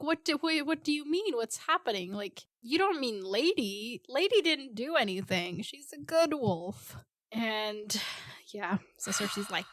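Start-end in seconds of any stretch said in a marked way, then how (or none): 0.0-7.0 mock Sansa distraught. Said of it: "she's like".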